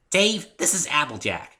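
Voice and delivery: high, slow, cheerful introduction; bubbly pony making introductions; Pinkie's voice. Acted.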